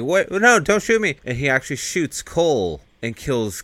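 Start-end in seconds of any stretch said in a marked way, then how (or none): 0.0-1.1 high, loud mock panic; imitated panicked yelp; freaking out. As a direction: play a frantic plea at a raised pitch. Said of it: "Leon's freaking out like".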